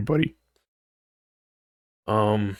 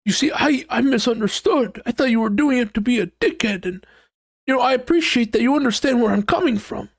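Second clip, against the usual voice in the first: high, fast, gushing sweet voice; mock sugary relief; relieved partner; 10 semitones higher than usual. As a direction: rush out the happy reconciliation. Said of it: "that good feeling and you're like".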